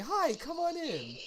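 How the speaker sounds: high breathy whisper, slowed; whispered welcome. Retold or imitated. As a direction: whisper a sweet hi come on in. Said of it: "And then it's like".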